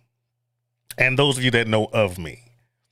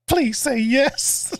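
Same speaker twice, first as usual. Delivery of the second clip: eager plea; 10 semitones higher, much slower than usual. Real, not acted. Begging a viewer, laughing.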